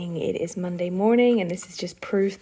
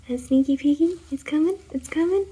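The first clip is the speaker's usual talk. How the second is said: higher, sing-song rising tease; excited build-up; 8 semitones higher, 5 dB louder than usual. Real, not acted. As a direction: build the suspense. Building up reveal.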